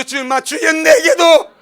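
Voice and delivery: very high, slow, loud cry; shouted plea. Retold or imitated. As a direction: cry out to heaven, stretched long. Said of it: "누가 말씀으로".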